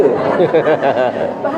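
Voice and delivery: short real laugh at his own joke; chuckle. Real, not acted. Preacher laughing at his own camel joke, a brief chuckle. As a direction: let a laugh break out after the punchline.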